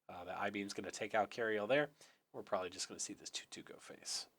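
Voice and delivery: hoarse, worn-out voice. Real, not acted. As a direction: talk through a raw, hoarse throat. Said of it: "Apologies for my hoarse voice".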